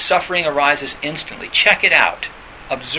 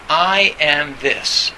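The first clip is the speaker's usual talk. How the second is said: slow affirmation; much slower than usual. Shown as a demonstration. Stated slowly as affirmation.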